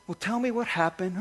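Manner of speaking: gentle doctor. Retold or imitated. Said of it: "He said".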